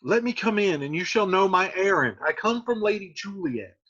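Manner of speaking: nurse through door. Acted. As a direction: call lightly through a closed door. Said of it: "the nurse speaks through the door".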